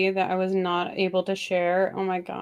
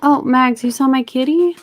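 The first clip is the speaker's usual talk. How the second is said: excited; 5 semitones higher, 7 dB louder than usual. Real, not acted. Excited about cat seen by viewer.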